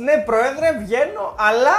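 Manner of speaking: imitated cheeky reply. Interviewer retells player answering his club president, mock self-defence. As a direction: act out a player defending himself. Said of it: "και εσύ του λες".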